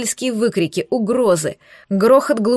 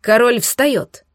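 выкрик; 2 semitones higher, slower than usual. Acted. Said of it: "крикнувший осёкся".

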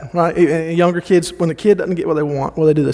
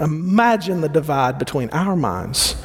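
ordinary delivery

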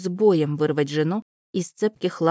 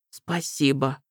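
tearful whisper; 3 semitones lower, slower than usual. Acted. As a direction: whisper it, close to crying. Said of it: "прошептал сквозь слёзы мужчина".

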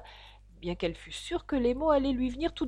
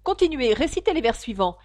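high, loud insistent command; a lightly voiced impatient griffon; urging griffon; 3 semitones higher, 5 dB louder than usual. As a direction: push her to go on. Griffon urges Alice impatiently.

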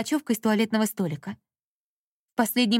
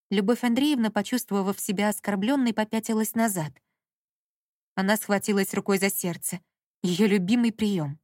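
usual speaking voice

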